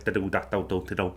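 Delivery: "da do da do do do do" as staccato Scouse syllables; "da do da do do do do" in short, separate beats. Shown as a demonstration. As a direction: hit each syllable of "da do da do do do do". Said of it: "it's like staccato".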